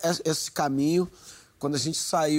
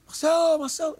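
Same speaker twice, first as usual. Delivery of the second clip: high, loud shout of a name; high-pitched reenacted holler; calling out from below; 13 semitones higher, 4 dB louder than usual. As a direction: imitate a friend yelling up from the street. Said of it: "tá gritando lá embaixo".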